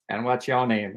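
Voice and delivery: lightly imitated famous actor; a hint of his measured delivery; Morgan Freeman. Star turns to the speaker, lightly imitated voice. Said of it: "he turns to me and he goes".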